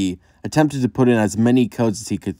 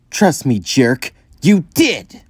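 defiant shout; 5 semitones higher, slower than usual. Acted. Amy retorts after being hit.

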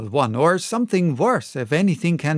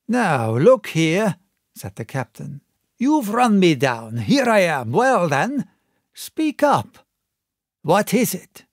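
higher and louder, defiant; gruff captain; 3 semitones higher, 3 dB louder than usual. Acted. Captain cornered, demanding Black Dog speak up, higher and louder. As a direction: brace up and demand.

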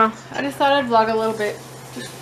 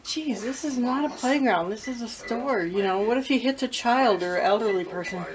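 hushed, under-the-breath grumble to herself; muttered to myself; 6 dB quieter than usual. Retold or imitated. Mother in the store grumbling to herself, hushed. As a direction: grumble it quietly so he can't hear. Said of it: "I said to myself".

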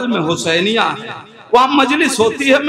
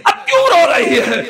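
pleading repeat; 4 semitones higher than usual. Acted. Father asking his sobbing daughter a second time, more insistently. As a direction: press the question a second time, more urgently.

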